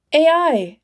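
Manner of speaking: calls out high and loud; a sharp shout to the air; sudden loud call. Acted. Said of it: "she shouted".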